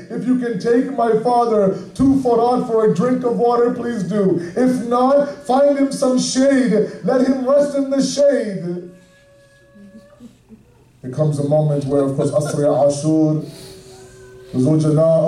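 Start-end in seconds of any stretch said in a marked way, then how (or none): 0.1-8.9 put-on raised, grieving recital of a child's plea; lamenting plea. Little Sakina begs the horse to shade her father, mournful pleading. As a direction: plead mournfully, voice lifted above the narration.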